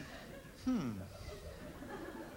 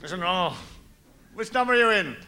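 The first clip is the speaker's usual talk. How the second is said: mock Hitler; faster than usual. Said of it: "Enter Adolf Hitler".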